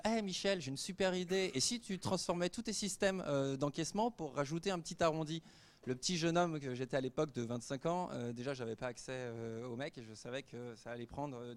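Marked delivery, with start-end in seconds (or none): 0.0-5.4 lightly acted, higher-pitched young hopeful; imitating a keen young man's sales pitch; eager imagined pitch. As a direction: pitch your super idea eagerly, voice lifted. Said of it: "et de lui dire".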